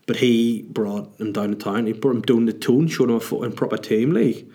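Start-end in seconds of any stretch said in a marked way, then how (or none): 1.9-4.5 broad mock Geordie, lifting on the last word; put-on Geordie accent. Retelling the night in town, put-on Geordie accent. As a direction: imitate a Newcastle local's accent.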